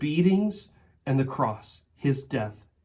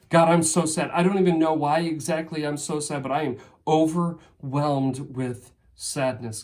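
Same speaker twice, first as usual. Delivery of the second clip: rising louder, pleading and distressed; anguished example prayer; 2 semitones higher, 4 dB louder than usual. Pretend. Preacher voicing a hurting believer's prayer, building to an anguished cry. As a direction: pour out grief and anger to God, building to a cry. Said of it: "What would honest prayer look like for you?".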